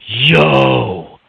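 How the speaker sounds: imitating coworker's strange, long "Yo"; odd drawn-out greeting. Coworker greeting the speaker at work, oddly drawn-out. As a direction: stretch out the mimicked greeting. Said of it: "Why are you talking like".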